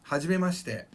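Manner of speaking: "hajimemashite" with a nearly silent i in shi; "hajimemashite" ending as "mash-te"; compressed native pronunciation. Shown as a demonstration. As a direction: run shi straight into te in "hajimemashite". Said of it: "the I isn't there".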